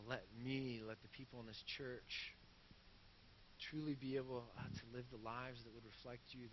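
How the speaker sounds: soft, low prayer voice; closing prayer. Acted. Pastor praying over his church, soft and reverent. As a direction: pray it quietly and humbly.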